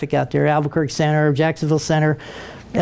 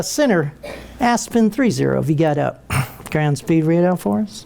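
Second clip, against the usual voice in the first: innocent voice; 3 semitones lower than usual. Retold or imitated. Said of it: "in his very best innocent voice".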